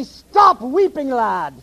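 elder scolding John in a Scottish voice. Retold or imitated. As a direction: draw out "Stop weeping" in a mock Scottish brogue. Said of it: "a Scottish drawl".

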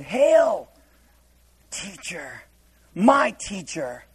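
mock the stiff old-fashioned greeting; solemn pious greeting. Shown as a demonstration. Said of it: "Hail doesn't mean like this kind of hail".

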